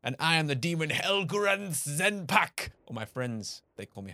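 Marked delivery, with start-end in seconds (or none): 0.0-2.7 slow, otherworldly demon voice; alien voice. Acted. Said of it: "You said do alien noises".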